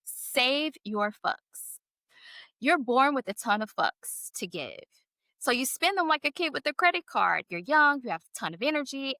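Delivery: amused read-aloud of a funny card. Acted. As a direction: read it out to them with relish. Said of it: "Imma read a little piece to you".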